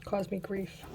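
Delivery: losing her voice; rough, worn-out voice; hoarse voice. Real, not acted. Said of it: "I'm losing my voice today".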